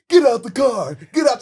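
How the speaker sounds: loud shouted prank command; hammed-up yell to scare her; mock yell. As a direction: bark it out like a carjacker. Prank, yelling at teacher in car.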